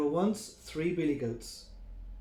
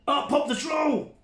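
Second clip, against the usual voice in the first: dramatic reveal; 10 semitones higher, 6 dB louder than usual. Acted.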